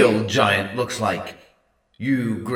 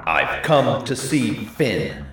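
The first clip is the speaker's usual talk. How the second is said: slow, louder growl; growling giant; 5 dB louder, slower than usual. A narrator's reading. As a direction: growl the demand. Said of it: "he growled".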